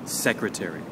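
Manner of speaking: "secretary" stressed on the opening SEC; stress on first syllable. Shown as a demonstration. Teacher modelling a word for learners, first-syllable stress on "secretary". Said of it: "will happen on the first".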